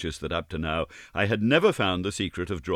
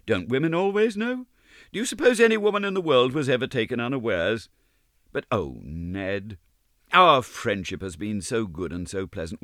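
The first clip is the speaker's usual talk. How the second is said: a hint of a higher young woman's voice, knowing; Gladys, lightly voiced; 5 semitones higher than usual. Gladys fending off Ned's proposal, lightly lifted voice. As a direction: gently tease him, lifted and light.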